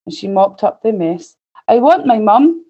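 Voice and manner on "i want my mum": put-on a touch of a child's yell; half-hearted yell, pitched a bit up; mild yell. Little princess wanting mum after spilling water, mildly yelled. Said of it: "yelled the little princess".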